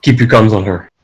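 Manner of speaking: low, controlled commander's voice; villain impression. Villain ordering troops to guard her, low commanding impression. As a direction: do a film villain giving orders. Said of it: "disturbingly accurate impression".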